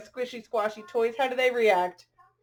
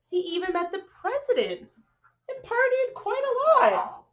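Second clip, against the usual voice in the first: bright, rhythmic picture-book read-aloud; reading to children; 2 semitones higher than usual. A narrator's reading. Reading a rhyming dog story to children, lilting storyteller voice. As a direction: read the rhyme to the little ones.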